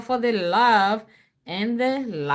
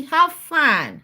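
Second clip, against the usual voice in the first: prompt to repeat; 6 semitones higher, 3 dB louder than usual. Shown as a demonstration.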